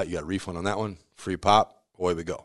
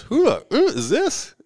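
much higher, slow mock New York phone voice; gruff New Yorker; 5 dB louder, slower than usual. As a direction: play a rude New York deli guy answering the phone. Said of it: "every New Yorker stereotype".

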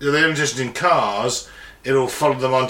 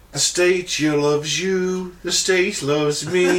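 dystopian announcer; 2 semitones higher, much slower than usual. Pretend. Mock Chinese propaganda broadcast.

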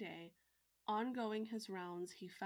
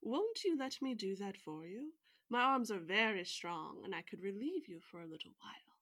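a hint of a wheedling Tanuki, a bit louder; wily Tanuki; 7 dB louder than usual. Tanuki offers to pound the old wife's barley, lightly wheedling. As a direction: coax her lightly, like a sly animal. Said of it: "Said the wily Tanuki".

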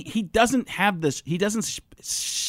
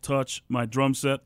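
slow, throaty Muppet-like voice; John C. Reilly voice; slower than usual. Acted. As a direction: voice pushed to back of throat. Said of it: "becomes John C. Reilly".

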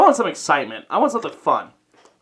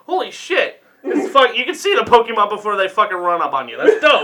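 excited, higher-pitched gamer gush; amazed reaction; 4 semitones higher than usual. Retold or imitated. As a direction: marvel at it, pitch jumping up. Retelling his amazed reaction to the game.

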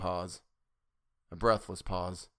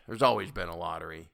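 petulant; 3 semitones lower than usual. A narrator's reading. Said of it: "he added petulantly".

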